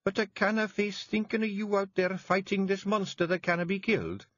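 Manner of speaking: wife begging him to stay; tearful Jeanie. A narrator's reading. Jeanie worried, near tears.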